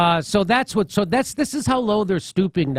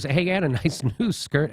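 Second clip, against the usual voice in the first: laughing quote. Retold or imitated. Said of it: "all I said was".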